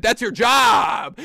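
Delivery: slow, loud, drawn-out "that's your job"; slow exasperated outburst; exasperated retort. Real, not acted. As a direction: spell it out slowly, fed up.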